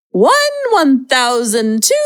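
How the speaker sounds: the Count. Pretend. Parent counting to cool off, the Count. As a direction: count slowly like a hammy puppet count. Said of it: "Now I sound like the count".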